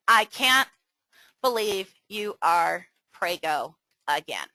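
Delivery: flat, let-down disbelief; disapproving reading. Shown as a demonstration. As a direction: say it as if it's bad news. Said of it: "Can you see how one could be completely misrepresented".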